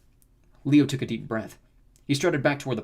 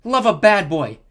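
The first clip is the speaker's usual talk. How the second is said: high, loud fangirl squeal; convincing squeal; 9 semitones higher, 11 dB louder, slower than usual. A narrator's reading. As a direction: squeal it like an adoring fan. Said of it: "with a convincing squeal".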